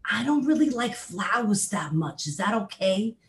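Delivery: high, loud Brooklyn bee puppet voice; a chatty New York bee confessing his tastes; Bernie the Bee voice. Pretend. Puppet bee telling the host about his anchovies in a high Brooklyn voice. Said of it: "Bernie the Bee talks like this".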